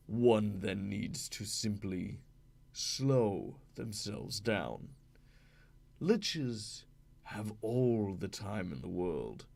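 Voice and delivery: slow, breathy, sinister lich voice; drawn-out ghostly whisper, unhurried; ghoul voice. Shown as a demonstration. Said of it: "So that's an example of how you would".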